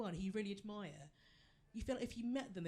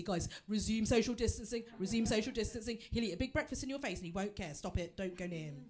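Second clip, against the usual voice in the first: urgent warning; 5 dB louder than usual. Pretend. Warning the crowd in pub.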